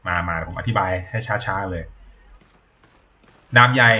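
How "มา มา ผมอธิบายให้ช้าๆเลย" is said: slow explaining. Real, not acted.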